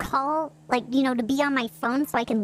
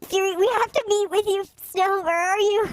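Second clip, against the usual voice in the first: lightly put-on higher voice; undercover voice; 5 semitones higher than usual. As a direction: talk like a secret agent. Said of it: "Why do you sound like that?".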